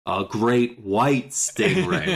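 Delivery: slow, ominous movie-trailer read of stingray; dramatic voice. Pretend. Hosts joking about the book's villain, slow ominous trailer voice. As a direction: drag out great white stingray like a monster title. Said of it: "I'm gonna keep saying this in this voice".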